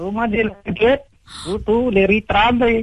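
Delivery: high-pitched, slow, fake mock Chinese accent.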